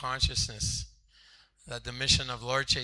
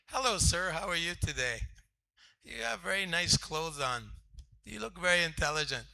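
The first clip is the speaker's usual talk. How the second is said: salesman pitch; 5 semitones higher than usual. Retold or imitated. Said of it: "that was his line".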